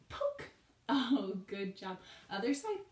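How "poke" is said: high playful poke. Shown as a demonstration. Playful scorpion poke cue.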